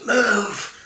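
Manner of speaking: curt order. Acted. Stranger orders Ben onward.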